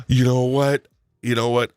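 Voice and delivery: mock outrage. Kicking his Boston co-host off the show, in mock outrage. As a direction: act insulted, playfully.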